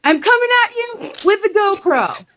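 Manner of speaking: high-pitched mock battle cry; retold excited high holler; imitated charging greeter. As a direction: call it out high, charging at someone. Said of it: "literally going".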